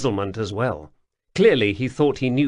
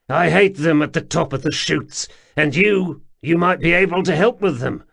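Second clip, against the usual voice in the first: higher, louder, eager and coaxing; coaxing underground man; 6 semitones higher, 5 dB louder than usual. A narrator's reading. Wemreddle coaxes the pair to come with him, higher and eager. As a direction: beckon them along, keen to please.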